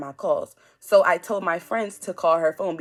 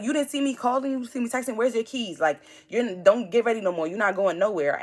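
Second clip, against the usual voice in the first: fierce; 4 semitones higher than usual. Retold or imitated. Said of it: "so I'm fierce".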